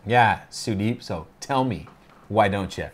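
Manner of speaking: mock-eager sarcastic challenge; sarcastic tone, daring him to tell. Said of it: "sarcasm, folks".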